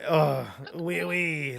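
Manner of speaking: throaty French frog-man voice; French bullywug croak, drawn out; deep-throated French accent. Shown as a demonstration. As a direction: put on a gruff French accent. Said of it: "deep-throated French accent".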